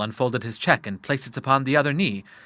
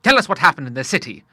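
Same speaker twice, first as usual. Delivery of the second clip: put-on loud, higher old sailor; lightly voiced hearty Admiral; 5 semitones higher, 6 dB louder than usual. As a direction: lightly play a brisk, hearty father.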